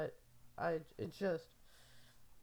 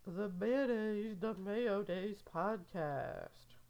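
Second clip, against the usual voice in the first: slow, drawn-out award presenter voice; lightly hammed-up award show announcement; mock award announcer; slower than usual. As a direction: announce the winner like a gala host. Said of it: "and it's like".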